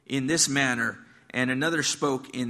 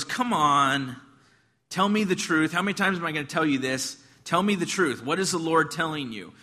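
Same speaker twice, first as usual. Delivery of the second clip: impatient demand; 2 semitones higher than usual. Acted. King pressing the prophet for the truth, acted impatience. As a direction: press for an answer, mildly fed up.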